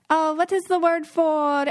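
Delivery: mock groping for a word; pretend forgetting. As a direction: act as if the English word escapes you. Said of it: "she pretended to forget the English word".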